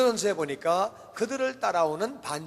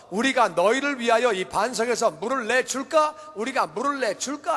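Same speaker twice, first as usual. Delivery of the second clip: acted irate question, higher in pitch; angry challenge; 4 semitones higher, 4 dB louder than usual. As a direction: throw the question at them angrily. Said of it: "화를 내면서".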